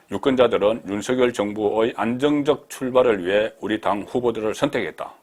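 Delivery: reading a written statement out firmly; emphatic read-aloud. Acted. Reads politician's post aloud.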